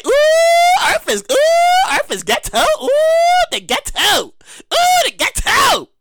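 high squealing alien voice, appalled; mock alien disgust. Alien looks down at Earth, squealing in disgust.

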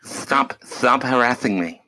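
mock whiny lisp. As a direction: whine "stop harassing me" with a th lisp. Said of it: "it's literally a speech impediment".

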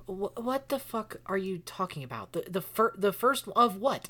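confused outburst. Acted. Maple demands to know what is going on, confused outburst. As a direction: demand answers, tripping over the words.

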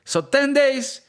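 high-pitched mock Russian accent. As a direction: act out locals with a Russian-sounding accent. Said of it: "I heard the Russian accent".

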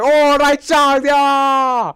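high, loud, slow gleeful cheer; a child thrilled at riding sharks; young boy cheering at the idea of riding sharks; excited kid. Retold or imitated. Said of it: "And I'm like".

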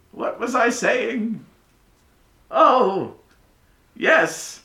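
put-on the old wizard forgetting his place, high and loud; lost mid-lecture, then back on track; high distracted professor mumbling to himself; high scatterbrained professor. Professor losing his thread.

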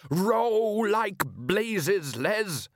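high, long-drawn holler; panicked father yelling to his son; urgent yell. Acted. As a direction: stretch the order out in alarm. Father urges escape in alarm.

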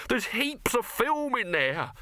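high, slow, cutting; snapped retort. A narrator's reading. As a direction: snap it back at him. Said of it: "snapped Dibbler".

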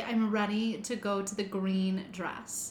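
slow, drawn-out Utah accent. Shown as a demonstration. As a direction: lean into the Utah Rs. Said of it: "Wait, do it again".

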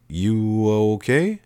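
a touch of worry; concerned. A narrator's reading. Girl checking on the clouded-faced narrator, concerned.

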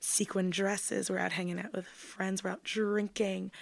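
low, husky sultry voice; a low, husky voice with a raspy edge; low magnetic voice. Real, not acted. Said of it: "your voice is so sexy".

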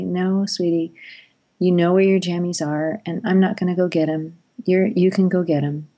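kind but firm. Retold or imitated. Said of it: "held the limit very, you know, very kindly".

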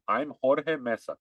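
put-on name said slowly with a Spanish accent; Spanish pronunciation on "Jorge Mesa". Coaching George on introducing himself, in a Spanish accent. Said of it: "say it with a Spanish accent".

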